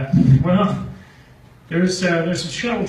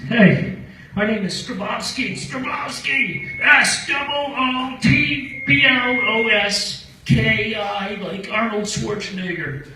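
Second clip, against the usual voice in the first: put-on loud, high, slow drunk stranger spelling out his name; 7 semitones higher, 3 dB louder, slower than usual. Drunk stranger at the campsite, loud and slow. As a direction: drag out the spelling like a hammered guy.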